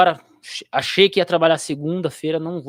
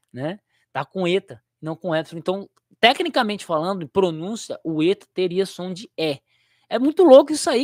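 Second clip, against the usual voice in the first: ordinary talk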